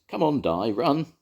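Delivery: loud, high urging call; urging shout. A narrator's reading. Jones urging Di to run to the bakery, shouting. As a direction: hurry him on. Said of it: "shouted Jones".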